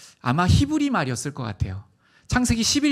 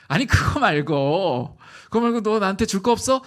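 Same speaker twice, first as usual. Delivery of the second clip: pressing father; 4 semitones higher, 5 dB louder than usual. Retold or imitated.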